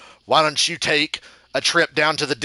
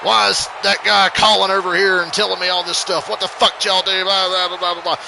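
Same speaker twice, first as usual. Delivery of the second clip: imitating the boss yelling, louder and higher; mock the boss chewing them out; angry boss voice, retold; 6 semitones higher, 4 dB louder than usual. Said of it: "He starts trying to yell at us".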